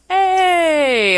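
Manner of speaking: high, loud call for attention. Retold or imitated. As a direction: call the room to order. Director steps in, calls out.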